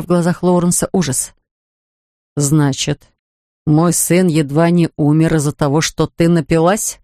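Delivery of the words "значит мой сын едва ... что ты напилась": low, slow, icy accusation. Acted. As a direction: freeze her with each word. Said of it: "Ледяным тоном проговорил он".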